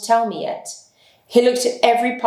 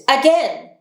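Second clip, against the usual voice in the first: cried out; 6 semitones higher than usual. Acted. Holmes urging the policemen to shout once more, a high cry. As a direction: call the men to go again. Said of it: "cried Holmes".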